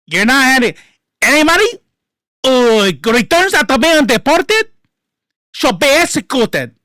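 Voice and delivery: high, loud mock imitation of her pompous speech. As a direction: lampoon the politician's stiff declaration, pushing it up high and loud. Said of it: "She's got a voice coach".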